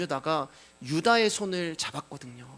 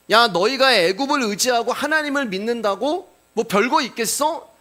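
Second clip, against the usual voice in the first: mocking; 5 semitones higher, 4 dB louder than usual. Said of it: "이렇게 하면서 이제 조롱을".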